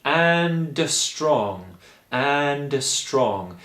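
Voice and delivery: "and" with a small "uh" after the D, "anduh strong"; tiny vowel after the D of "and". Shown as a demonstration. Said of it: "we actually need a little uh vowel just after there".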